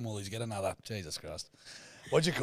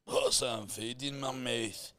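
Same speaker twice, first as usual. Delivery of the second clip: Fat Bastard impression; slower than usual. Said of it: "He now sounds like a fat bastard".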